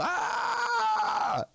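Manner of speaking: high, held yell; mock scream. Screaming at work to be noticed, mock scream. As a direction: let out a long high comic scream. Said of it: "I have to yell and scream".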